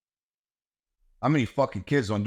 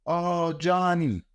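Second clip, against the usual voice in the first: mock coddling parent; 6 semitones higher, much slower than usual. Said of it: "mocking coddling parents".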